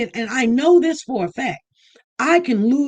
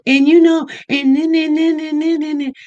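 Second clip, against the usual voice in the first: mocking Jacqueline; 7 semitones higher, 4 dB louder than usual. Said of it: "'Cause she's like".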